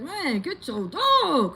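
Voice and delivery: loud, high, drawn-out angry shout; mad yell. Retold or imitated. Owner re-enacting yelling at the neighbor, mad and loud. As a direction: yell it in exasperation, stretching the words. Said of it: "I'm just so mad".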